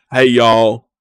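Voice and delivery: loud mock Southern greeting; imitating a fake Southern twang; fake Southern accent. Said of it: "put on this weird fake accent".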